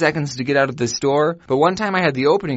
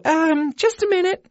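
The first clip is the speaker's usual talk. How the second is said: mock coworker; 13 semitones higher than usual. Coworker answering on phone.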